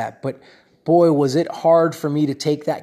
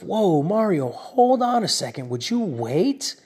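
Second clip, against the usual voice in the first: self check. Retold or imitated. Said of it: "I had to say to myself".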